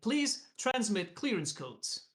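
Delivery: slow, insistent computer voice; a machine repeating its warning, slowly; urgent automated voice. Acted. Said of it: "automated voice, with more urgency".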